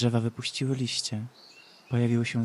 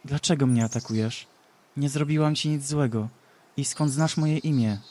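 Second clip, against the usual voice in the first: weakened questions; 3 semitones higher, 4 dB louder than usual. Acted. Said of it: "zapytała ją osłabiona Ashera".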